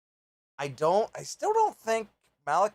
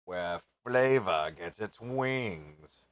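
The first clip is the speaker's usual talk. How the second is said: ad slogan voice; 5 semitones lower, much slower than usual. Acted. Ad slogan recited.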